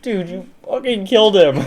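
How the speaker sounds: high, loud, laughing mock accusation. Kid accusing his brother over the elf, high laughing mock anger. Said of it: "And I'm like".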